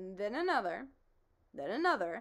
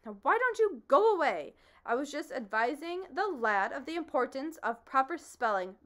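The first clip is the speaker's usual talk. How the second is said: lightly voiced bee; 4 semitones higher, 6 dB louder than usual.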